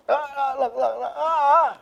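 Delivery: high sudden yelps of pain; startled yelps. Real, not acted. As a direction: yelp as the cat bites. Cat bites him suddenly.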